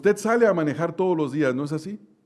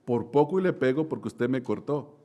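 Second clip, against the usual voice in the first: polite; 3 semitones lower, 3 dB quieter than usual. Retold or imitated. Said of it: "yo amablemente le dije".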